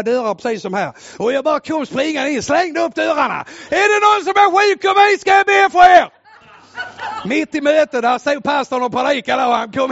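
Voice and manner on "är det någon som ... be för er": much higher, louder shout to the congregation; shouted call. Retold or imitated. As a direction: burst in calling out. Bursting into church meeting. (ropar högt in i kyrkan under mötet)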